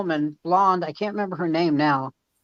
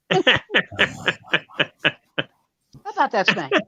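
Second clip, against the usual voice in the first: mock cheerful; 5 semitones higher, faster than usual. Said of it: "I go".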